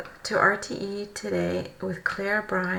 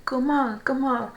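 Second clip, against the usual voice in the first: louder call of Gomal, Gomal; called out word; 4 semitones higher, 5 dB louder than usual. Shown as a demonstration. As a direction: call out Gomal, Gomal like a road sign. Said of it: "you say".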